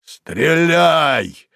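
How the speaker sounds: put-on a touch of a hoarse defiant old man; hoarse shout. A narrator's reading. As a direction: bellow it down from the roof. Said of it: "хриплый голос".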